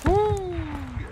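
high whooping cheer; excited cheer. Real, not acted. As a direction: whoop it up after the hit. Cheering a successful shot.

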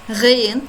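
"Gıyn" with a throaty, gargled g; throaty Arabic ghayn. Shown as a demonstration. Teacher showing students the Arabic ghayn, throaty. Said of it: "ha gibi yine genizden çıkarıyoruz".

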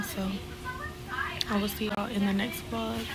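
hushed vlog sign-off; whispering. Real, not acted. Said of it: "I have to whisper right now".

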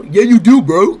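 teasing imitation of London speech; mimicking London accent. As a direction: parrot a Londoner's accent back at them. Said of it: "that's how you fucking sound".

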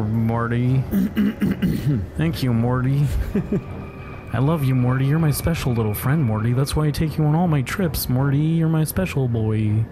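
slurred, rambling mad-scientist grandpa; cartoon scientist voice. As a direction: drawl it out like a drunk genius. Voicing a cartoon scientist to Morty.

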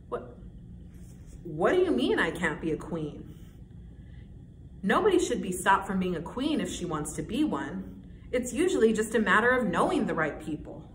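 lightly acted indignant would-be queen; stagey protest with swooping emphasis; Lucy. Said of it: "I'm gonna be playing Lucy".

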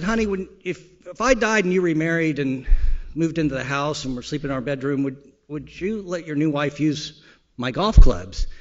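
a touch of a wife probing; wife's voice. Retold or imitated. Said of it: "and she said".

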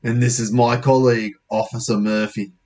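lightly voiced British officer; a hint of a British bobby; British policeman. Officer introducing colleague to boy, British policeman voice. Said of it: "the police officer's British".

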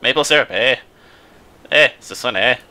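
lightly put-on Canadian, each phrase tagged "eh"; hammed-up Canadian with lifted "eh"; mock Canadian. Player going fully into character, mock Canadian. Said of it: "This is Canadian".

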